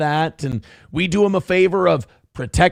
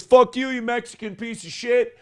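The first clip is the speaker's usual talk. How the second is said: mock redneck insult; 6 semitones higher than usual. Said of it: "he goes".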